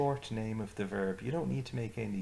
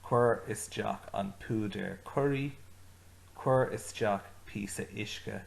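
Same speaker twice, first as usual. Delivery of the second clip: giving orders; 3 dB louder than usual. Retold or imitated. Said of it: "I'm giving orders here".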